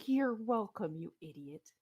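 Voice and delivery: lightly voiced voice in the head; Halaster. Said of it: "the same voice in your head going".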